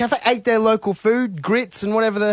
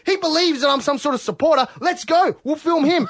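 higher, eager retelling to the crew; excited; 4 semitones higher than usual. Retold or imitated. Telling his film crew about the rally, excited and higher. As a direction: rush it like big news.

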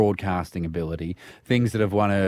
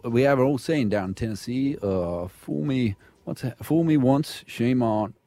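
hesitant, lightly attempted Texan president; George W; 3 dB quieter than usual. Co-host attempting George W on request, halting impression. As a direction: stumble through a folksy presidential saying. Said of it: "Can you do George W?".

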